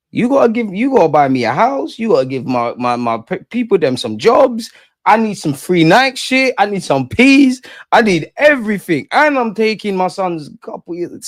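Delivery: hammed-up footballer's dad, pitched high, stretching each demand. Pretend dad of Yamal negotiating with Barcelona, hammed-up demanding.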